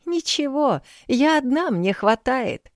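brushing it off, high and slow at the end; dismissive. A narrator's reading. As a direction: wave the worry away lightly. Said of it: "отмахнулась женщина".

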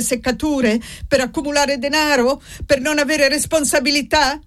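lightly voiced angry priest lecturing; irritated priest scolding. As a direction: berate the old miser without pause. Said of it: "sempre più irritato".

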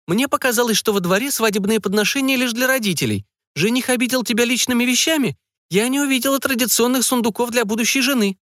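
prying mother digging for details, pitched high. A narrator's reading. Mother questioning her daughter about the groom, high curious voice.

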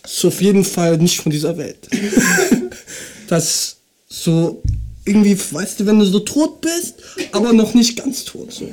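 verpeilter Kiffer, leise und tief. Acted. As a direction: spiel einen bekifften Typen. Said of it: "ich mach eine Kiffer nach". (Kiffer-Stimme)

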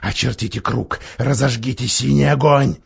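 a hint of grey voice. Werewolf continues commanding.

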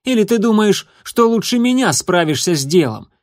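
a hateful, jeering challenge; open hatred. Acted. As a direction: taunt the rival with open contempt. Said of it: "с откровенной ненавистью".

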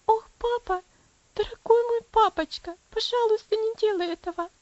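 put-on high and loud, desperate girl's wail; wailing in despair. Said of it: "запричитала девочка в отчаянии". (громко и высоко, причитая в отчаянии)

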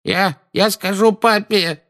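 high, slow whining sob; whimpering. Acted. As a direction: whimper like a scared child. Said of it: "хныкал Дадли".

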